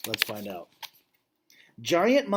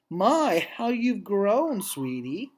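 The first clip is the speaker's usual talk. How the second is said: lightly voiced doting old dog; 5 semitones higher, much slower than usual. Snickers doting on Ruby.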